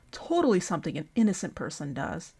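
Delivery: dry, understated sarcasm; sarcastic. Real, not acted. Commentator mocking a PR firm hire as innocent, sarcastic. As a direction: say it with mock conviction, meaning the opposite. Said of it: "That's sarcasm".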